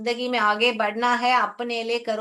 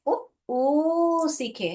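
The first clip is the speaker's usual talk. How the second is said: slow drill; 4 semitones higher, much slower than usual. Shown as a demonstration. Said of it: "teacher drills the sounds".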